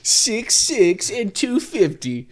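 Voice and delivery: slow, dramatic list-video narration; clickbait video narrator. Acted. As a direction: hype up the stats slowly. Joining mock narrator bit.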